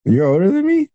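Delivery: high, disbelieving realisation; stunned surprise. Real, not acted. Guest realising the host is older, stunned high surprise.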